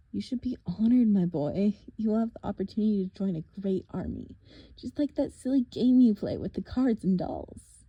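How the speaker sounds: a lightly voiced, taunting monster; mock them, a touch sinister; menacing villain. Villain taunting the half-blood at the cliff edge, lightly menacing. Thorne's voice.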